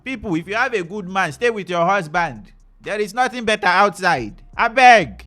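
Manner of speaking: loud, high, begging plea; loud pleading. Real, not acted. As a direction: beg the audience at full volume. Pleading to audience loudly.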